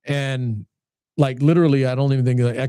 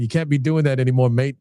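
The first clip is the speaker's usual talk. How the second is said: lightly imitated English accent; hint of English accent, dropping the final R. Retelling a former fighter's blunt advice, mild English accent. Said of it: "And in his English accent".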